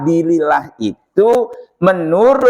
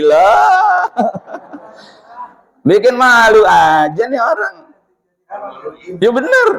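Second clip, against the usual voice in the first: laughing disbelief; 5 semitones higher than usual. Real, not acted. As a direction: laugh it out, shocked and amused. Reacting to odd request. (tertawa tak percaya)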